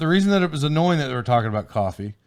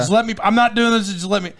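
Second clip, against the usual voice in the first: retold exasperation, pitched up at first; mildly mad customer; 5 semitones higher than usual. Customer arguing with waitress over paying, mock annoyance. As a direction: cut yourself off like a fed-up diner. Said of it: "mad about it".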